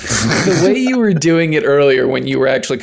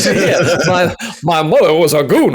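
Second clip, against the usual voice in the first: put-on Scottish accent; 3 semitones higher than usual. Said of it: "the Scottish brogue".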